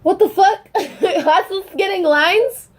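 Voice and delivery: high, laughing disbelief with a slow tail; shocked laughing exclaim. Retold or imitated. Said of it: "I was like".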